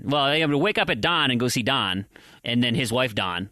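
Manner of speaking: "dawn" and "Don" both said "Dahn"; Minnesotan merged Don/Dawn. Acted. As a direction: mimic Minnesotans saying "dawn" just like "Don". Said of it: "everyone just says Don".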